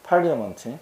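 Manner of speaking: 파리아먼트 said as pa-ri-a-meon-teu; correct pronunciation. Shown as a demonstration. Teacher answering how it's pronounced, correct pronunciation of 파리아먼트. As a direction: say 파리아먼트 with a clear "a" after the r. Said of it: "발음이 어떻게 된다고?".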